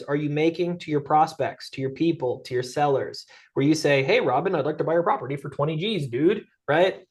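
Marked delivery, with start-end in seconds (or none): 4.0-6.4 bad casual offer. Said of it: "Hopefully you don't talk to your sellers like that".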